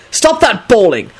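slow, emphatic angry order dropping low; cross father, restrained in volume; furious yell. A narrator's reading. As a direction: order it angrily, leaning on each word. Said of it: "Quentin yelled furiously".

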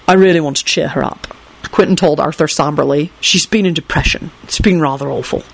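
low-key, somber and concerned. Acted. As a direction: confide it somberly, slightly subdued. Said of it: "finished in a concerned voice".

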